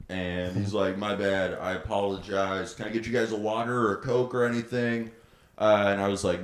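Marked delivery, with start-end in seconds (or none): 1.0-5.1 softly imitating a calmed-down drunk; quieter, subdued mock apology; retold leveled-out apology. Drunk guy returns to apologize to the couple, leveled out. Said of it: "comes back leveled out".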